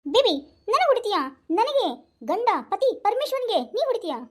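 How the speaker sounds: high, outraged disbelief; can't believe she hit him; shocked husband. Acted. Husband to wife after the slap, high shocked disbelief.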